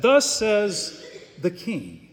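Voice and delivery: slow, deliberate royal proclamation; understated herald's announcement, slowly; large proclaiming voice. Acted. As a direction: repeat the decree word by word. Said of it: "called out in a large voice".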